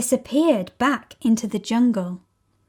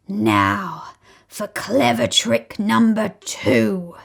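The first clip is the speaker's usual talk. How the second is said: sly to himself; slower than usual. Acted. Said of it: "he said to himself".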